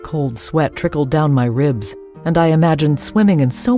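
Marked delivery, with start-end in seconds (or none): none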